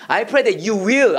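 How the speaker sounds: very slow, each word laid out; slow wrong example. Shown as a demonstration. Teacher showing students the phrase to avoid, very slow. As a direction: show the wrong version slowly. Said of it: "will로 기도하면".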